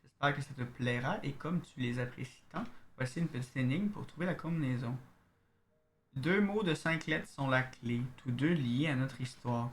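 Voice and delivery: reading a love letter aloud. Acted. Streamer reading a letter from the game, letter-reading voice. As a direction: read the note like a letter.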